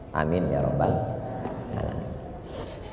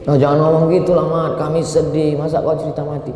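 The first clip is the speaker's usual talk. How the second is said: mock protest; 8 semitones higher, 4 dB louder than usual. Friends protest his death talk.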